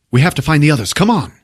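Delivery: rally them as the castle falls; mock movie-hero urging; urgent hero.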